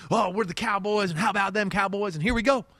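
put-on Texan huddle talk; Texas accent. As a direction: play cocky Cowboys players with a Texas twang. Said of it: "that was my Texas accent".

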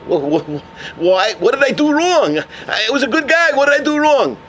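acted disbelief, tripping over the first word; stammering protest. Condemned man asks the voice what he did, stammering protest.

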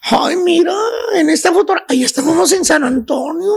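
a lightly voiced wistful chuntara, sighing over old photos; gossipy friend voice. Chuntara telling her friend about the ex, lightly sighing. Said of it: "le dice la chuntara a la amiga".

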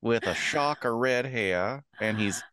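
high, slow mock voice of a nasal half-wit; high nasally voice. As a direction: stretch it out high and nasal, poking fun. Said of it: "a high nasally voice".

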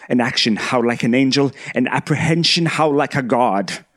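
lightly put-on orator's voice with gravitas; a hint of a stage actor, weighty and declamatory; Admiral Satie. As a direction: recite with conviction, building toward the end. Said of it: "in the really bad Admiral Satie voice".

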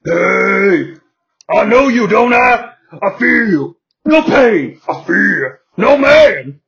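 loud, growly wrestler voice; Vader voice. Acted. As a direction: bellow like a big brute wrestler. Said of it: "notices the men at ringside and speaks".

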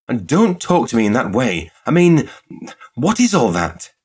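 high, loud protest; exasperated cry. A narrator's reading. Shop girl protests to presumptuous suitor, crying out. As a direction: demand an explanation, flustered. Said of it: "she cried".

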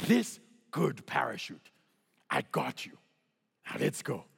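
broken English. Retold or imitated. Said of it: "limited lexicon that I have when it comes to English".

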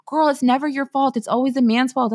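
mock ex-friend. Ex-friends excusing her from blame, mock reassurance. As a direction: lightly put on an insistent girlfriend.

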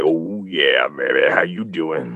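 low, teasing come-on; lightly hammed-up lover voice; a touch of sultry voiceover; mock seductive voiceover. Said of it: "voiceover stuff like".

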